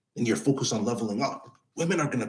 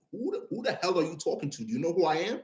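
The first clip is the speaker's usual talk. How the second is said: a higher, pushed demo of an aggressive clapback; aggressive comeback; 5 semitones higher, 6 dB quieter than usual. Shown as a demonstration. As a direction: fire it back at her like you're in charge. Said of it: "a very aggressive voice".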